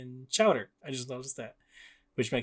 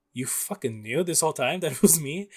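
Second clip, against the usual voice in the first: mildly raised, mock-outraged accusation; losing it, retold; 4 semitones higher, 5 dB louder than usual. Peter to Doc Ock before he loses it, mock outrage. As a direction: retell an angry confrontation, a bit higher and louder. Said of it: "he fucking loses it".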